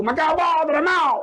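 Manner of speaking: a hint of a protesting child; upset child. Retold child refusing food, upset.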